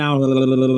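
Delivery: mock tongue-tied stumbling on "I'll"; tongue-tied babble. Co-host showing how reading aloud goes wrong, tongue-tied. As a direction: trip over "I'll" into a stuttered l-l-l. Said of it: "I'll get tongue-tied and stuff".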